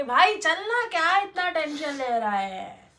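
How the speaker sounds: lightly mimicked friend, loud opening, drawn-out ending; carefree friend. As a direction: imitate a buddy brushing worries off, stretching the words. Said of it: "जो लोग बोलते हैं कि". (बेफ़िक्र दोस्त की हल्की नकल)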